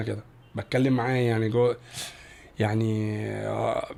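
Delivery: low, soft, sincere reassurance; hushed, earnest comfort with long pauses; quiet, heartfelt. Real, not acted. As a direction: speak gently from personal experience, voice dropped low. Heartfelt advice drawn from hard times.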